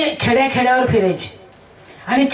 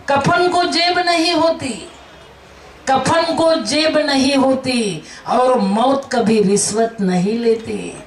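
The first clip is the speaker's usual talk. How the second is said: घोषणात्मक; slower than usual. Acted. Proverb in voice of the dead.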